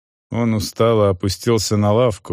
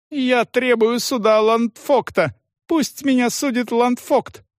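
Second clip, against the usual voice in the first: high, fast shouted demand; indignant rant; furious yell. A narrator's reading. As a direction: demand it at the top of the voice. Salon demands a proper trial.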